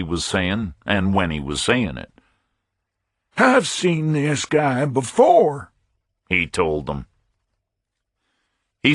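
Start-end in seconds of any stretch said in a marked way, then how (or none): 3.4-5.7 higher, pinched voice of a busy pompous captain; fussy fat captain. A narrator's reading. Captain dismissing a stranger, higher pompous voice.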